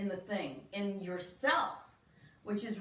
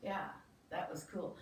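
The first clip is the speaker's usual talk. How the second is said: sigh of relief; 5 semitones lower, 11 dB quieter than usual. Retold or imitated. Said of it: "get this big sigh of relief".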